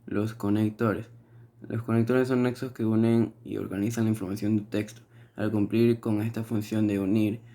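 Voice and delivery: steady, recited study-notes reading; reading notes aloud. Real, not acted. Student reading class definitions to the teacher, reading aloud. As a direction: read it off the page, stumbling now and then.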